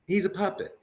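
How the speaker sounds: put-on high child voice; imitating a kid's answer; kids answering. Kids naming the puppet for Michael, lightly high child voice.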